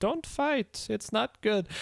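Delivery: sugary, silly cutesy voice, high and slow. Retelling a scene where she stops the arguing guys, in a put-on silly cutesy voice. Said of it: "with her silly, silly, cutesy voice".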